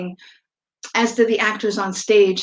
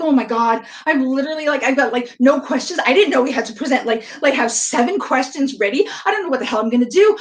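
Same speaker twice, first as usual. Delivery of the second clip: retold panic; 2 semitones higher, faster than usual. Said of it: "I'm freaking out".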